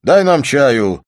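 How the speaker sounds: drawn-out shouted order for tea; slow loud order. Acted. Volyntsev ordering tea from the servant, slow loud call. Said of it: "крикнул он громко".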